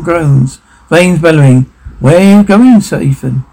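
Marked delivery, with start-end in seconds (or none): 2.0-3.4 lightly raised, questioning call; mild acted demand; calling after someone.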